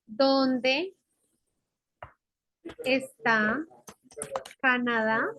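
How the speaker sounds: "Dónde", "está", "Canadá" each alone, rising, long pauses between; word-by-word dictation. Shown as a demonstration. Teacher writing out the question, word-by-word dictation. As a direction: dictate one word at a time, lifting each ending.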